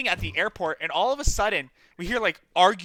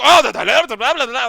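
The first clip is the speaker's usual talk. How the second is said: mock yelling; 7 semitones higher, 10 dB louder than usual. Imitating arguing Italian man.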